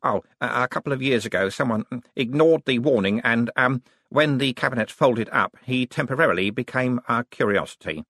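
lightly voiced, halting academic explanation; hesitant young wizard. Young wizard admitting a past accident, hesitant. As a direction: hedge awkwardly between ums.

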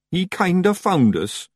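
sheepish tiny Scots pixie; Feegle voice. A narrator's reading. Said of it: "said Daft Woolly".

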